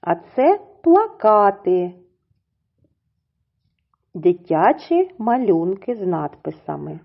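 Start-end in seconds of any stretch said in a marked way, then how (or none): 0.8-1.9 "плакати" stressed on -ка-, pla-KA-ty; stress on second syllable. Shown as a demonstration. Teacher introducing children's pictures with captions, stress on second syllable. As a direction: lean on KA in "плакати". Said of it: "наголос в цім слові припадає на другий".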